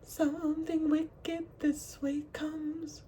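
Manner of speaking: slow, high, spooky quoting; ominous quote. Retold or imitated. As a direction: drag out the eerie line like a horror trailer. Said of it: "I'm hearing the".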